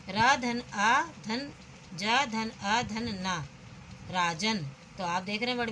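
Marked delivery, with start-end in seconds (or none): 0.1-3.5 slow spelling out. Shown as a demonstration. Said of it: "इसी तरह से राजन".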